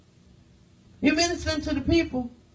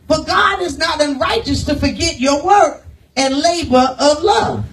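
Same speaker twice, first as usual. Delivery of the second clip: louder, slower scripture proclaimed; preaching shout; 2 semitones higher, 5 dB louder than usual. Acted. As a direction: thunder the verse out to the church. Preacher reading scripture with force.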